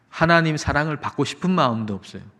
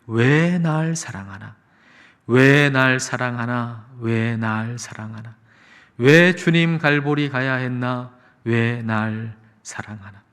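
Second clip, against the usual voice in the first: slow, drawn-out praise lyrics; measured, half-chanted lyric reading; hymn lyric recitation; 3 semitones lower, slower than usual. Acted. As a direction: recite the hymn refrain, lingering on each phrase. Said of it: "이 찬양이".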